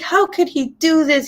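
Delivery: high-pitched heartbroken child imitation; upset son. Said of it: "So my son's crying".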